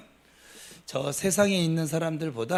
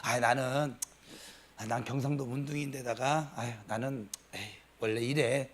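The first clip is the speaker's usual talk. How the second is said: stubborn Gyeongsang man; 7 semitones lower, 7 dB quieter than usual. Retold or imitated. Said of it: "내 것만 주장하면서".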